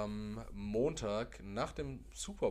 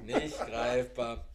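laughing; much slower than usual. Real, not acted. Laughing, repeated slowly.

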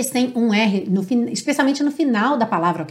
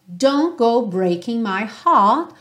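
British English; slower than usual. Shown as a demonstration. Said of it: "com sotaque mais americano".

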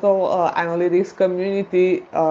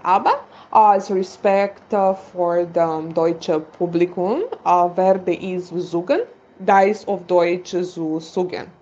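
slow, hesitant non-native German; carefully piecing German together; halting bad German. Real, not acted. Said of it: "apologies for my bad German".

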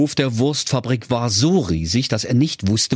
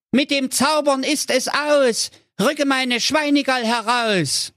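high, excited hero voice; a silly young hero shouting his idea; hero calling out. Acted. (hohe, aufgeregte Heldenstimme)

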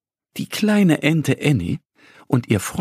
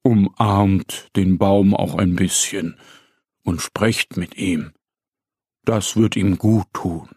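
lower, gentle advice; a touch lower, kindly; stag's advice; 4 semitones lower than usual. Acted. The stag gives Annie and Mo a kind tip, lower and gentle. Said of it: "gibt der Hirsch ihnen einen Rat".

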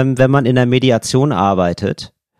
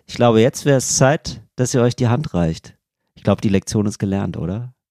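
smiling Mareike; 5 semitones lower than usual. Retold or imitated. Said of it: "lächelt irgendwann Mareike und sagt".

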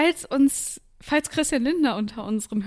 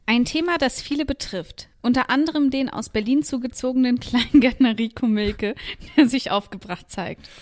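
news report. Acted.

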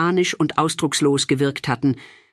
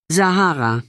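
warm and gentle; 2 semitones higher than usual. A narrator's reading. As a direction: say her name tenderly. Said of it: "warm und sanft klang".

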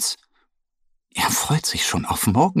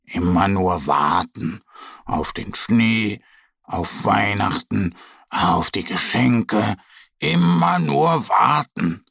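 grumbling. Acted. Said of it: "meckert er".

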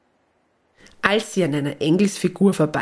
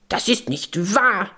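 protesting gnome; 3 semitones higher than usual. Acted. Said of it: "schreit der kleine Wichtel".

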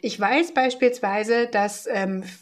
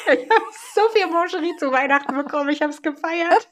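laughing; 5 semitones higher than usual. Real, not acted. Laughing about chocolate gift.

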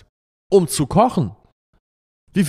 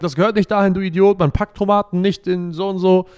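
mildly imitating a scolding wife; mock nagging, pitched a bit higher; 4 semitones higher, 3 dB louder than usual. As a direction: play the wife telling him off. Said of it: "dann meckert die Frau und sagt".

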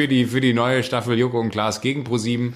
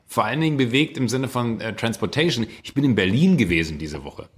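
ordinary talk

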